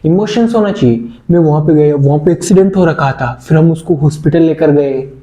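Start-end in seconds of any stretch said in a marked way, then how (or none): 1.3-5.1 a touch more feeling and force in the telling; mildly emotional retelling of an accident. Shown as a demonstration. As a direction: tell it as if it shook you. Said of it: "ऐसे emotions होने चाहिए".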